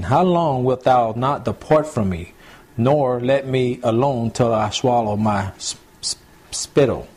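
put-on slow, measured reading of old Bible words; slow scripture reading. Preacher reading Job aloud to the congregation, slow and solemn. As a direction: read the verse slowly, weighing each line.

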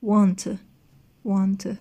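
"want to" as one word, "wantuh", single T; linked "want to". Shown as a demonstration. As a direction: show "want to" merged, ending on a weak vowel. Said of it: "ببینید بچه تلفظشو". (نمایش ادغام want و to در یک واژه)

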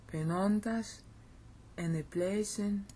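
eneplecen stressed and lifted. Shown as a demonstration. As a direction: punch eneplecen. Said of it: "Notice I'm stressing it here".

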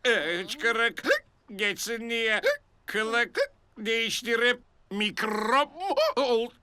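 laughing. Real, not acted. Laughing at the costume.

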